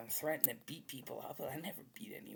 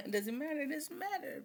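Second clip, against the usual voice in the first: laughing repeat; 14 semitones higher, 5 dB louder than usual. Real, not acted. Laughing repetition.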